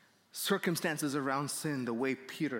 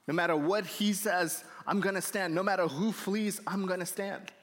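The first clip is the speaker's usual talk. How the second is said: higher-pitched, defiant vow; puffed-up boasting; 3 semitones higher than usual. Retold or imitated. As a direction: act out cocky determination. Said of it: "chest all puffed up".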